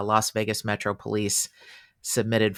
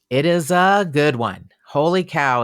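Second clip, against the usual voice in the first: excited; 5 semitones higher, 7 dB louder than usual. Real, not acted. Excited about fascinating case.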